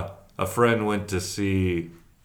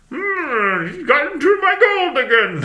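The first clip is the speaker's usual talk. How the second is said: put-on western prospector voice, much higher, louder; 6 dB louder than usual. Describing how a villain sounds, the speaker does a Western prospector voice. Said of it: "who sounds like a Western prospector".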